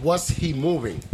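put-on a touch of a Dominican accent, slow. Quoting his movie line in a slow Dominican accent. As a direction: deliver it in Santiago's Dominican accent. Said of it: "In my Dominican accent".

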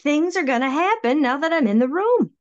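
high-pitched, insistent retort; retold I-told-you-so. Storyteller to her doubting friend, emphatic I-told-you-so. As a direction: act out being proved right.

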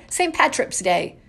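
Saint Patrick's Day said as Patrick-ps. Shown as a demonstration. Vlogger shows her family's way of saying Saint Patrick's Day. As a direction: add a P sound to Patrick's. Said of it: "with a P on the end".

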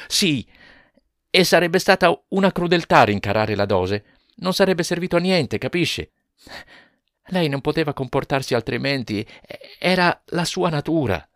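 high, loud near-shout; almost shouting. Acted. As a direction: nearly cry it out, certain. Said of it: "quasi gridò".

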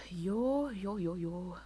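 playful hype call. Real, not acted. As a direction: hype the audience.

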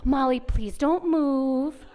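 slow, gentle technician request; nicely. Retold or imitated. Technician gently asking Molly to hold still, slow and kind. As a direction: ask her kindly and slowly not to move. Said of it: "telling me so nicely".

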